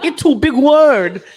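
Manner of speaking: put-on high, laughing baby voice; high baby talk with a giggle. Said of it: "my baby voice".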